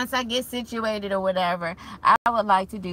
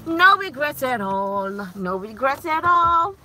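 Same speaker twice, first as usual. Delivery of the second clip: raised pitch and volume, climbing on the repeat; emphatic declaration; 4 semitones higher, 6 dB louder than usual. Real, not acted. Mom to viewers about her marriage, emphatic. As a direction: proclaim it loud and high.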